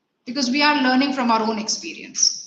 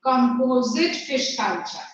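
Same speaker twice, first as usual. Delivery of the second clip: classroom dictation; slower than usual. Acted. Dictates the question for writing.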